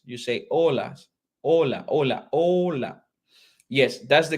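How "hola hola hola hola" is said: HOLA repeated with a silent H, as "OH-la". Shown as a demonstration. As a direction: model each "hola" starting straight on the O. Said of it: "H is voiceless". ("hola" with no H sound, repeated for learners)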